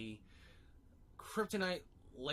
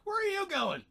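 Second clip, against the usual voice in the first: shrill squeak far up high, much louder; a tiny imp squealing after him; high-pitched imp squeal; high whiny cry; 8 dB louder than usual. Retold or imitated. Mixie cries out after Lobo.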